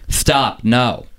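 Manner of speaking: half-hearted urgent shout; mild mock scream. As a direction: mimic a scream without really raising the volume. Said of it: "hears a scream".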